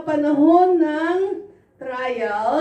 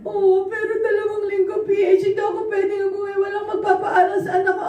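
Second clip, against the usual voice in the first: retold frantic plea; 4 semitones higher, faster than usual. Worker's frantic retold reply.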